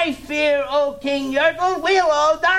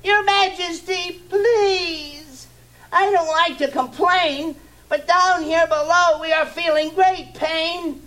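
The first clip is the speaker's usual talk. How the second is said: much higher, strained pleading turtle; groaning plea. Acted. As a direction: beg the king through the pain. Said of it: "groaned Mac".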